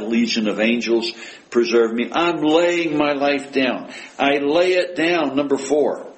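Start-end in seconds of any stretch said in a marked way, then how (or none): 2.1-5.3 slow, higher "I'm laying my life down. I lay it down"; emphatic quote. Acted. Preacher counting Jesus' repetitions, slowly emphatic "laying my life down". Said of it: "Five times is pretty emphatic".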